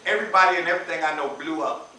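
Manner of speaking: fast, laughing brag; half-joking brag; laughing boast. Retold or imitated. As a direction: rattle it off while chuckling. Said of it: "I'm like".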